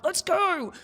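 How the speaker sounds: high, drawn-out rallying cry; playful pump-up call; mock hype. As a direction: psych yourself up with mock gusto. Acts out psyching herself up.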